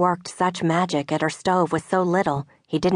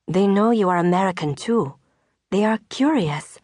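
Veronique; 2 semitones higher than usual. Acted. Veronique voiced in dialogue.

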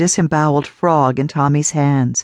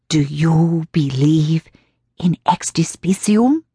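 put-on slow eerie old woman. A narrator's reading. Old woman asks eerie question.

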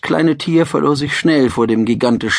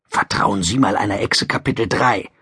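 wry, low and sour; cynical; 3 semitones lower than usual. Acted. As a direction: mutter it with dry cynicism. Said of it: "dachte er zynisch".

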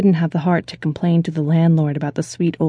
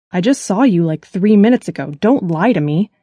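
a touch louder, pressing accusation; mild shout; 3 dB louder than usual. Acted. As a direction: lean in, don't let her lie. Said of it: "Jaden shouted".

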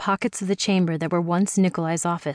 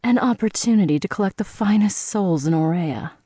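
correcting him. Acted. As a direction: lean on "An opportunity" to set him straight. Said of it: "she corrected".

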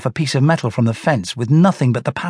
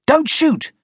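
screamed; 13 semitones higher than usual. A narrator's reading. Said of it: "I screamed".

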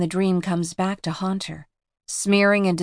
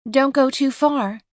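put-on calling out to the girls; anxious call across the shore; 6 semitones higher than usual. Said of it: "calls Vanessa".

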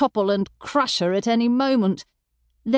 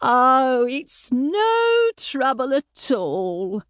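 a slow, sugary gush, a touch higher; 4 semitones higher, much slower than usual. A narrator's reading. Mother gushing to the landlord, sugary and eager. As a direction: gush over the guest. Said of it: "Mother gushed".

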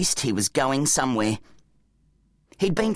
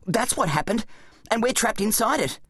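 higher-pitched, urgent explaining voice; Zack, an exasperated boy hero; 7 semitones higher than usual. Acted. Boy hero's voice in story.

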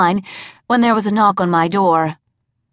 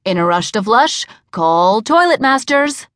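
ad slogan read; 3 semitones higher than usual. A narrator's reading. Quoting her ad slogan.

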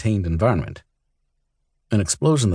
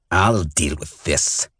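slow, drawn-out lizard hiss; slow menacing hiss from the exile to Roke; much slower than usual. A narrator's reading. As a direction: hiss each word slowly, like a reptile. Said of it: "he hissed at Roke".

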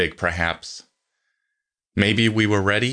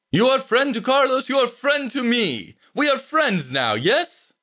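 put-on very high, effusive Slavic-accented voice; strong Slavic accent. A narrator's reading. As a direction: befriend them eagerly in a thick Slavic accent. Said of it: "in a strong Slavic accent".

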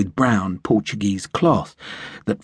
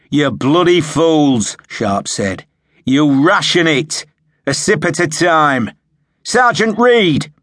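louder, higher barking orders; angry officer shout; 6 semitones higher, 5 dB louder than usual. Acted. Sharp shouts at new men who drank all their water, angrily. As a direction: tear a strip off the recruits. Officer scolding recruits with empty canteens.

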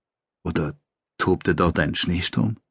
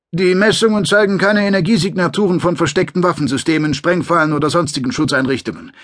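higher, brisk report voice; a higher second voice giving a report; squad member's report; 8 semitones higher, 3 dB louder than usual. Acted. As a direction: read it off like a soldier reporting scan data. Squad member reports scan results.

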